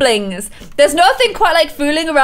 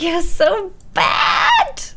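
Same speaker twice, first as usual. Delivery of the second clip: mock scolding; 4 semitones higher, much slower than usual. Real, not acted. Teasing Sim about night.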